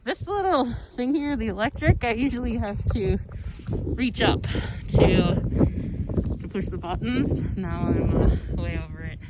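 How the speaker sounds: muffled behind a winter face mask; through face mask. Real, not acted. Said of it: "sorry, I have a face mask on".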